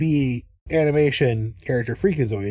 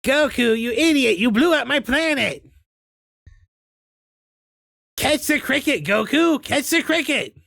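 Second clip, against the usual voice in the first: much higher, strained, furious cartoon villain; angry cartoon rival; 10 semitones higher than usual. Splitting the difference between voices, a high angry cartoon rival. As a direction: rant at him like a cartoon rival who lost his planet. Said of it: "All of a sudden".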